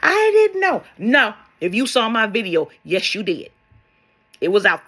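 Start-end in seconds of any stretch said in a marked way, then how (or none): 0.0-0.8 much higher and louder, insisting; louder mock plea. Imitating someone after crossing over, a louder mock wail. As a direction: push the excuse harder, half-hearted wail. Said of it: "you gonna sit up and say".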